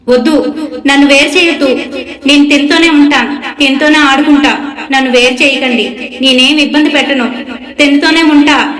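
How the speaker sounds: frantic pleading shout; possessed pleading yell. Retold or imitated. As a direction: cry out like a child spirit clinging on. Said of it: "గట్టిగా అరుస్తున్నానంట".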